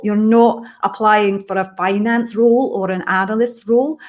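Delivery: lightly put-on Scottish accent throughout; a hint of a Scottish lilt, for fun. Answering Taryn's question in a light Scottish accent. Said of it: "I'm gonna do it all in Scottish accent".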